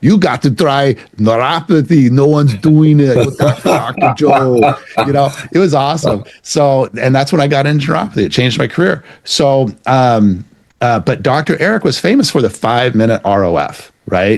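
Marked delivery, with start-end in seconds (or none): 0.0-4.7 put-on heavy Austrian accent, pitched higher. Retelling what a former coach said to him: imitating Doctor Eric's heavy Austrian accent. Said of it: "he has this really heavy Austrian accent".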